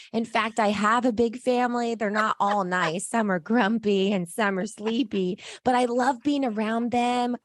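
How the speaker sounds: lightly voiced, contented dwarf; happy dwarf. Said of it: "You sound so gruntled".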